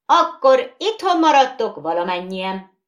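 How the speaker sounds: high, loud threat; angry shout. Acted. Bogeyman silencing the noisy skittles, angry shout. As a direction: yell to silence them.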